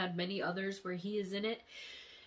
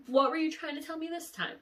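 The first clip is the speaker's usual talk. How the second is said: loud, higher pleading to the dream; exasperated questioning; 8 semitones higher, 5 dB louder than usual. Retold or imitated. Asking her late loved one what the dream meant. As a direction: demand an answer, baffled. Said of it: "it's like".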